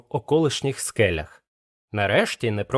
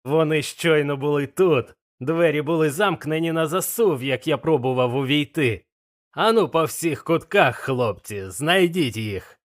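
lightly voiced pirate boss barking orders; rally the men to search every corner; blind Pew ordering; 4 semitones higher than usual. Blind Pew orders his crew to hunt, mild shout.

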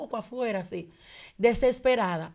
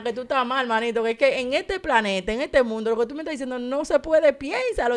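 retold debate; 3 semitones higher, 4 dB louder than usual. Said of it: "El, el debate mío con la gente".

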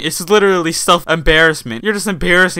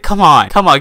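cheering; 6 dB louder than usual. Real, not acted. Cheering the YouTuber.

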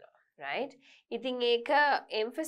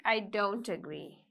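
slow and firm, stress on "I"; emphatic disagreement. Shown as a demonstration. Teacher demonstrating the emphatic form for the class. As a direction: say "I don't agree" slowly and firmly. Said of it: "I don't agree is more emphatic".

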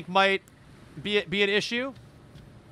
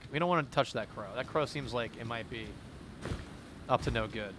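ordinary talk

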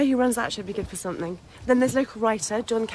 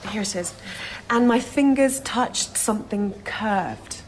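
slow, hushed storytelling; reading a ghost story; slower than usual. Acted. Woman reads the ghost story to colleague, slow and hushed. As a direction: draw the listener into the dark well slowly.

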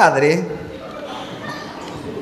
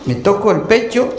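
complaining patient; 4 semitones lower, 3 dB quieter than usual. Acted.

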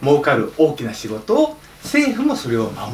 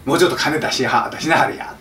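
Kansai dialect. Pretend. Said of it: "アメリカさん関西弁で喋るかどうか".

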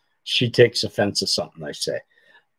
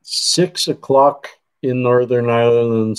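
light put-on Irish accent on "Ireland"; fake Irish accent. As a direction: slip into a playful mock Irish lilt. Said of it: "I can't say Ireland without putting on the fake accent".

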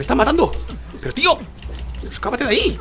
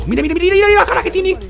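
higher and louder, gleefully showing off; excited urging; 10 semitones higher, 4 dB louder than usual. Real, not acted. Gamer urges viewers to look at the beaten face, higher and louder. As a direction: point at the battered face with glee.

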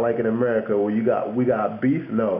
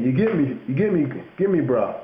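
higher, insistent London "get me"; London slang; 3 semitones higher than usual. Retold or imitated. Checking a mate understands, mock London slang. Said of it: "they'll normally go like this".

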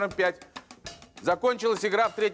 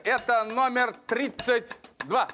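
bingo caller; 2 semitones higher, slower than usual. Acted. Lotto host calling drawn number.

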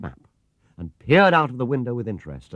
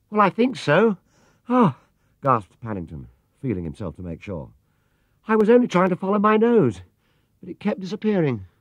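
put-on much higher, earnest young bear; small bear voice; 9 semitones higher, 4 dB louder than usual. A narrator's reading. Bear explaining his fall to the cabbie, in a high small voice. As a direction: innocent and a little dazed. Paddington's voice.

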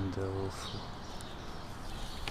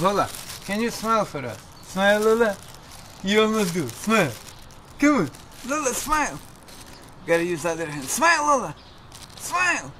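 very high, loud coaxing; coaxing a dog; 11 semitones higher, 5 dB louder than usual. Real, not acted. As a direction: beg the dog to smile, squeaky. Begging dog to smile for photo.

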